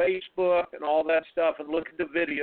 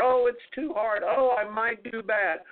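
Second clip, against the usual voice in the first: higher-pitched mock fretting; King Wimp; 3 semitones higher than usual. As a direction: imitate a little doubting voice on the shoulder. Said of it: "he whispers in there".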